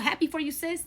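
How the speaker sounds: sincere congrats. Shown as a demonstration. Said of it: "Clock it".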